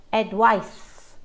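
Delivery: "Advice" ending in a clear s sound. Shown as a demonstration. Teacher naming the s sound in advice. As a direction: finish "Advice" with a hiss. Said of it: "with a s sound".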